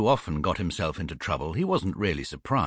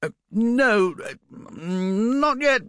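high, muffled bear voice; 12 semitones higher, much slower than usual. A narrator's reading. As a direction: speak as if through a blanket. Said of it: "cried Paddington in a muffled voice".

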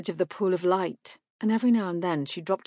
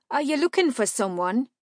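woman's voice; 7 semitones higher, 4 dB louder than usual. A narrator's reading. Marka asks stranger.

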